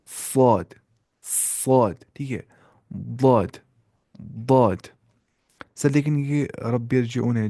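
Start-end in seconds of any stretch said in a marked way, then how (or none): 0.1-2.0 "साद" with a thick S and rounded vowel; Tajweed emphatic "साद"; heavy Saad. Shown as a demonstration. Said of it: "मोटी आवाज़ से पढ़ने होते हैं". 2.9-4.8 "दाद" with a thick D and rounded vowel; Tajweed emphatic "दाद"; heavy Daad. Shown as a demonstration. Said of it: "मोटी आवाज़ से पढ़ने होते हैं".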